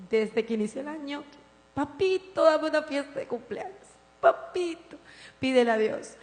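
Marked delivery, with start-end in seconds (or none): 1.7-6.2 put-on higher, wheedling child voice; begging little girl. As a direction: coax daddy for a party. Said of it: "Pero ella".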